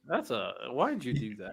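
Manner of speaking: quietly baffled question; muted dismay. Real, not acted. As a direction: ask it under your breath. First muted reaction to the matchup.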